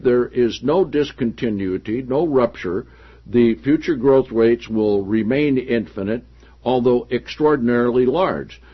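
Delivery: steady, projected reading of a written passage; read-aloud. Acted. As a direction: read it out clearly from the book. Reads book passage aloud.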